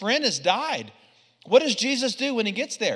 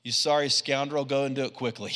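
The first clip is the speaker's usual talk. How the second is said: much lower and softer, grave and knowing; quiet rebuke; 7 semitones lower, 6 dB quieter, faster than usual. Retold or imitated. Preacher voicing Jesus quietly confronting Judas. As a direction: speak it low, like a hushed verdict. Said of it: "He's like".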